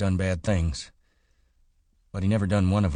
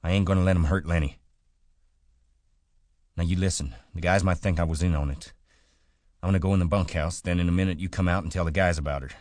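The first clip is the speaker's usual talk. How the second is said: urgent; 3 semitones higher, 6 dB louder, much faster than usual. A narrator's reading. George urgently plans cover story.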